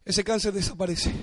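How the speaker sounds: "Ese cáncer desaparece" spoken low and soft, almost to himself; soft, low "Ese cáncer desaparece" before the build; quiet declaration. Shown as a demonstration. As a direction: murmur "Ese cáncer desaparece" as a hushed prayer. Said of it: "Dígalo".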